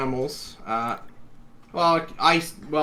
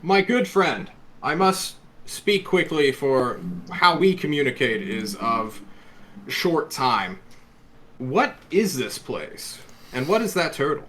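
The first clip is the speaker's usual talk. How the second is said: regal voice; 2 semitones higher than usual. Acted. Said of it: "regal voice".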